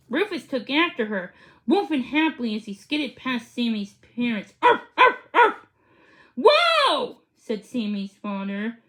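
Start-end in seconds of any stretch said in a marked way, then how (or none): 4.6-5.7 higher, louder yappy arfs; excited dog barking; happy barks. A narrator's reading. 6.3-7.2 higher, louder astonished whoa; surprised exclaim. A narrator's reading. Father surprised by dog.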